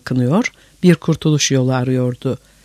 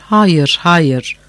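raised, falling cries of refusal; muffled shouting; 3 semitones higher than usual. A narrator's reading. Kıpçaks refusing to be drowned, muffled shouting. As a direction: cry out in protest, mildly raised. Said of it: "Kıpçaklar boğuk seslerle bağırdılar".

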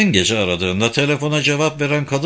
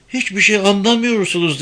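put-on girl raising her voice, pitched up; higher, insistent protest with modest added volume; raised voice; 8 semitones higher than usual. A narrator's reading. Girl tells questioners they don't understand, raised voice. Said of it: "dedi kız sesini yükselterek".

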